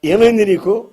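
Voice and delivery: lightly voiced concerned Jesus; Jesus asking. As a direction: voice Jesus reaching out to a grieving man. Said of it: "అని అడిగాడు".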